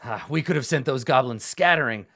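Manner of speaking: hearty battlefield praise, lightly acted; admiring warrior. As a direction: hail a comrade with grand admiration. NPC hails a fellow fighter.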